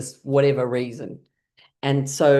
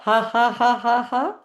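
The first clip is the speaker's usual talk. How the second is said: higher rhythmic ha-has; shaking laugh; 7 semitones higher, 3 dB louder than usual. Shown as a demonstration. Leading the class shaking up the drink, rhythmic laugh. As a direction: punch out evenly spaced ha-has, pitched up. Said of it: "shake it up".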